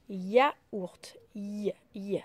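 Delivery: yaourt et i chuchotés; whispered sounding out. Shown as a demonstration. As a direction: chuchoter le mot pour entendre le i. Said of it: "Alors, j'entends le i". (mot chuchoté pour isoler le son)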